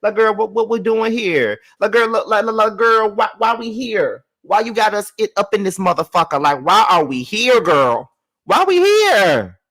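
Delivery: put-on high, loud, exasperated girl why-are-we-here. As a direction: protest to your friend, voice climbing. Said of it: "because it's like".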